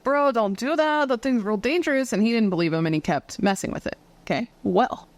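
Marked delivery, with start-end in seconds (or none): 0.0-2.1 Ed Warren. Retold or imitated. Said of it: "Well, Ed Warren was like".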